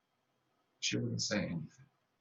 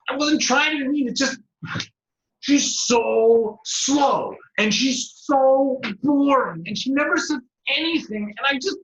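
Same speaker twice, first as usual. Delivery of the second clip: high, loud, whiny rat stretching slow and so boring; flustered rat; 13 semitones higher, 8 dB louder than usual. Acted. Rat excusing himself to the parrot, high whiny voice.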